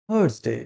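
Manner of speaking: থার্সডে with silent r, softly modelled; corrected Thursday. Shown as a demonstration. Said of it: "এই আর এর উচ্চারণটা silent থাকে". (থার্সডে-র সঠিক উচ্চারণ, র নীরব)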